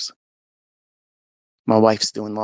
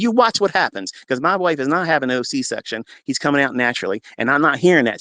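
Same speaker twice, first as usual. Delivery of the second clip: defiant rebuke; 3 semitones higher than usual. Retold or imitated. Husband defying Satan over the C-section. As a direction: rebuke the devil's lie.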